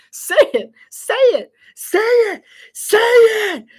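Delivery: retold frantic urging at his co-caster; inner scream. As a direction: build the plea to a mock scream. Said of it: "I was just screaming on the inside".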